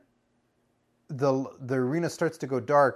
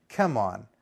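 normal talking voice

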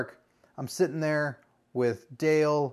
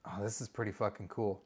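softer and lower, almost to himself; grudging awe; 6 semitones lower, 11 dB quieter than usual. Retold or imitated. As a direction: let it slip out under his breath. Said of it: "break a little bit and go like".

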